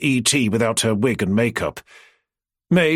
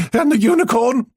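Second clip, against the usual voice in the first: high, louder, choking back laughter; laughter almost breaking the question; barely getting words out; 12 semitones higher, 4 dB louder than usual. Acted. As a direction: force it out through a laugh. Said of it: "Sparks could barely get the words out".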